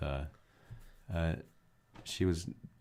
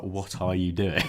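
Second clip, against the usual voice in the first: teacher's baffled question; 5 dB louder, slower than usual. Retold or imitated. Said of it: "she's like".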